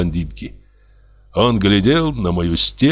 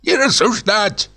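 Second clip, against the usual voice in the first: put-on hoarse old man; 13 semitones higher than usual. Old director rebuking the lodger, croaky old man. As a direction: bark it like a tetchy old man. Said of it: "раз десять повторил старческий, охрипший голос".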